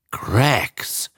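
sharp call of a name; mild startling shout. A narrator's reading. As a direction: call him to attention. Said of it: "rief Sir Charles".

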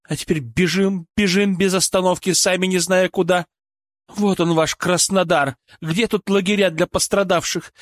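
высокий женский голос, сдержанная злость; ровно, без крика бросать обвинения; зловещее спокойствие. Acted. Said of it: "говорила со зловеще спокойной интонацией". (зловеще спокойно, повышенным тоном)

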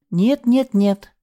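lamenting plea. A narrator's reading. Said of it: "причитала Элиза". (причитая, выше и громче)

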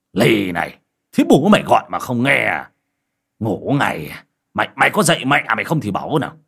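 father scolding his lazy son after the broom; angry scolding. Acted. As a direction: scold him like a fed-up dad.

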